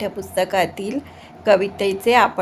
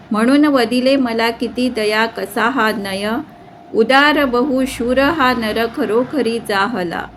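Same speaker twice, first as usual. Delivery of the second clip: poem recitation. Acted. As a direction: recite the verse line by line, keeping the metre.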